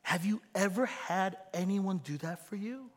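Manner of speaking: high, excited surprise; delighted surprise. Shown as a demonstration. Pastor shows a thrilled welcome, high and surprised. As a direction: act thrilled to see them. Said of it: "But be like".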